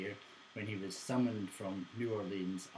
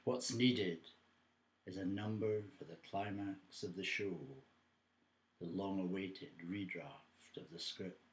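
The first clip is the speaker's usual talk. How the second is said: measured poem recital, long pauses between phrases; poetry reading. Acted. Recites own soliloquy poem.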